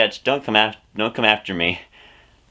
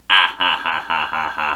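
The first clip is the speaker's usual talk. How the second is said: villain laugh; 5 semitones lower than usual. Retold or imitated. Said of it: "I am Wario".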